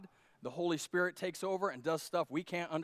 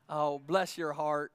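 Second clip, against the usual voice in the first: mock sweet pity; 2 semitones lower, slower than usual. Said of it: "That's what you say".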